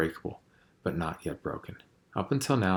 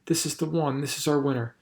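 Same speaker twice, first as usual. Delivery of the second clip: high, loud jubilant cheer; excited shout; 8 semitones higher, 4 dB louder than usual. A narrator's reading. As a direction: cheer as if winning the Olympics. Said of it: "she shouted".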